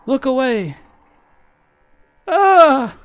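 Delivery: high, hammed-up elderly wail; old man voice. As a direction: beg like a desperate old man. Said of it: "do an old man voice".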